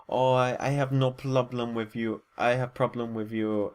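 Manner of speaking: clumsy put-on accent for Del Rio; horribly stereotypical accent. Reviewer voicing Del Rio's reply to Batista, bad put-on accent. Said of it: "Horrible accent".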